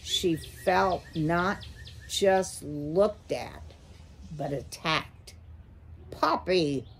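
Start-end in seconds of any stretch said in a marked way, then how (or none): 6.1-6.9 growled name, the eh punched much louder. Acted. An owl menacing a small mouse, growling. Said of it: "he growled".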